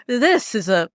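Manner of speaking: put-on slipping into a lightly French accent; a hint of French accent creeping in; accidental French accent. Imitating skeptics entering the house, accidental French accent. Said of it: "it went French".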